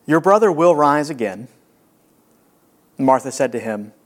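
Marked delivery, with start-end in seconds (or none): 0.1-1.5 louder, firm reassurance; Jesus' promise. Acted. Jesus promising Martha, firm and loud. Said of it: "Jesus said to her".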